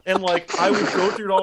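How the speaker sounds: ordinary talk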